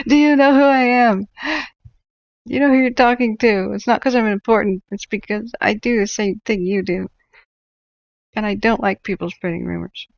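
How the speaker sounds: high, loud entitled Karen voice, fading back down; mock Karen. Parodying himself to stream viewers as a Karen, hammed-up entitled rant. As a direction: huff it out like a self-important Karen. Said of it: "I almost sounded like a Karen".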